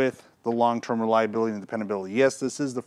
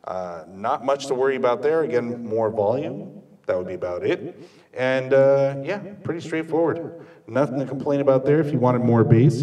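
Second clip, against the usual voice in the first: talking into the speaker's mic with echo effects on; through the PA mic; 2 semitones higher than usual. Real, not acted. Reviewer testing the PA mic with effects, amplified echoing voice. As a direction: let the room speaker carry the voice, effects up. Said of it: "put the effects up at fifty percent just to see what that sounds like".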